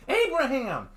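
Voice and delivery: high, loud frantic scream of the name; sharp alarmed scream. Acted. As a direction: shout it in panic to wake him. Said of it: "I heard Michelle screaming".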